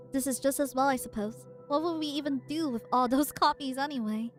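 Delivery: measured dramatic reading; story narration. Acted. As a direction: read the lines like a narrator. Reading the comic aloud.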